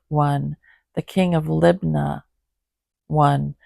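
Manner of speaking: measured, even Bible reading; scripture reading. Acted. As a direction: read the passage steadily aloud. Reads list of kings.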